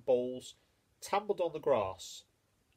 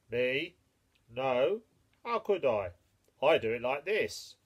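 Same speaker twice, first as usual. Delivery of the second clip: horse voice; 6 dB louder than usual. Acted. Horse answers the mole.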